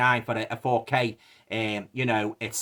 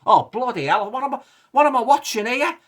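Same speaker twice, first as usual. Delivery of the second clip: exasperated disbelief; 10 semitones higher, 4 dB louder than usual. Retold or imitated. Retelling his reaction to film.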